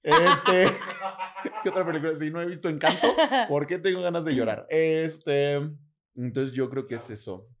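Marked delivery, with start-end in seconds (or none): 0.0-4.7 higher, bewildered whine; whiny self-quote. Retold or imitated. Host quoting his stressed self, half-laughing and whiny. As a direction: act out asking why you want to cry. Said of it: "lo mío empieza así como de".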